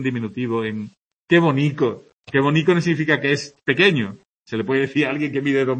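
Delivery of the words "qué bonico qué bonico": fond "¡Qué bonico!" said with tender emphasis; affectionate. Shown as a demonstration. Teacher showing the word expresses affection, fondly. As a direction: coo "bonico" as an endearment. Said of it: "es decir, expresa afecto, cariño".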